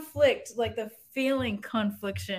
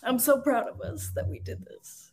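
proud through real tears; tearful pride; 5 semitones higher than usual. Real, not acted. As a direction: voice high and breaking with tears. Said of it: "I'm so mad that I'm crying".

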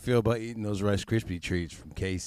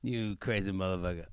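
delighted. Retold or imitated. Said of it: "I was like".

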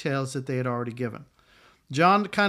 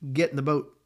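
sharp command. Retold or imitated. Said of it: "he said more sharply".

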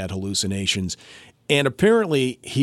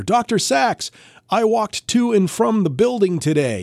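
higher, bright call across the ward; calling out proudly; 11 semitones higher, 4 dB louder than usual. Retold or imitated. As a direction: proudly announce her walk to the doctor. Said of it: "She would call out to".

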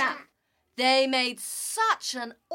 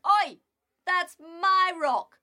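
indignant shout; 5 semitones higher, 4 dB louder than usual. Acted. Animals quarrel over a rock.

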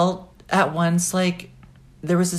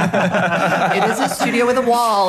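laughing; 3 semitones higher, 5 dB louder, slower than usual. Real, not acted. Defending her studio.

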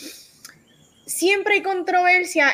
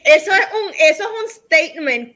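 high, louder words broken by real laughter; cracking up mid-protest; laughing; 6 semitones higher, 3 dB louder than usual. Real, not acted. Host laughing while pushing back on the joke. Laughing at cohost's actress jab.

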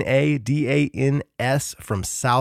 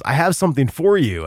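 slightly raised mock Peruvian accent; bad Lima accent; 4 semitones higher, 4 dB louder than usual. Guard with a record to hand over, badly faked Lima accent. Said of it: "person from Lima, like, accent".

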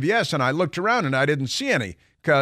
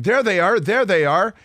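higher and louder, shouting and pointing; mock yell in a put-on woman's voice; 7 semitones higher, 5 dB louder than usual. Man in a dress yelling at the customer, high mock shout. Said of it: "starts yelling and pointing".

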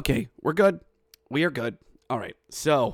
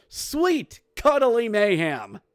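high, drawn-out announcer cry; slow, high, celebratory exclamation; imitated goal call; 6 semitones higher, slower than usual. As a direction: stretch it out like a triumphant goal call. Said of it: "Zach even said on the goal, goal call".

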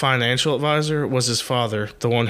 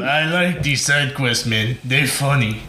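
barbarian voice; 2 semitones higher, slower than usual. Pretend. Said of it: "I sound like a barbarian".

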